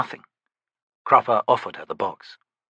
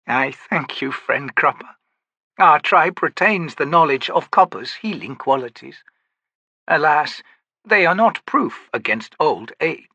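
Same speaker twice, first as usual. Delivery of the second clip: aged, dignified woman's voice, higher; old priestess voice; 5 semitones higher, 3 dB louder than usual. Acted. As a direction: speak as an old tribal healer. Maibi speaks in story.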